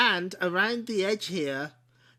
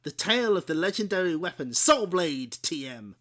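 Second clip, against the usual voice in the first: pirate voice; 4 dB louder than usual. Pretend. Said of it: "do my best pirate voice".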